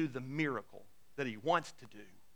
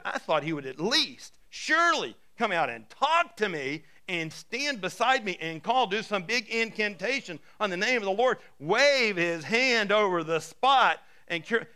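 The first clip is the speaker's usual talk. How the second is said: indignant, slowing down at the end; a touch of wounded pride; mild angry complaint; 4 semitones higher, 5 dB louder than usual. Retold or imitated. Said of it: "Naaman went away angry and said".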